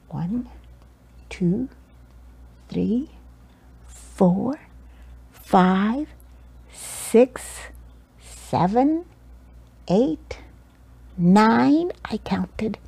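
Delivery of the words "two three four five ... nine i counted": whispered under the breath. A narrator's reading. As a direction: breathe it out without voice. Whispered counting aside.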